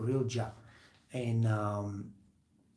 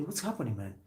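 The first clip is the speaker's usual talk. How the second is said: higher, lightly voiced older coworker; a hint of a patient mentor, pitched up; older coworker advice; 5 semitones higher than usual. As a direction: play the calm older coworker talking him down. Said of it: "And he tells me".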